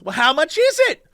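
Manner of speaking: mock tipsy customer, pitched high; drunk Vegas woman. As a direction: put on a high woman's voice to ask. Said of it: "And the woman goes".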